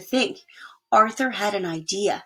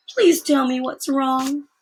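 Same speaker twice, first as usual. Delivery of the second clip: slow, higher, tearful asking; tearful plea; 5 semitones higher, 3 dB louder, slower than usual. Acted. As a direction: plead through tears. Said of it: "Arthur couldn't help crying".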